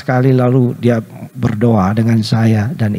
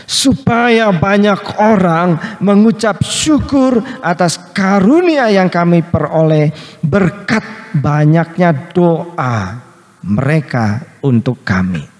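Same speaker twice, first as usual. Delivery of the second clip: slow, solemn reading of the verse; scripture quote; 5 semitones higher than usual. Retold or imitated. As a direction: read Paul's words with weight. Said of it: "Paulus katakan".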